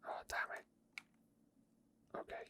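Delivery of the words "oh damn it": ordinary talk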